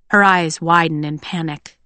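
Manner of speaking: ordinary delivery, nothing marked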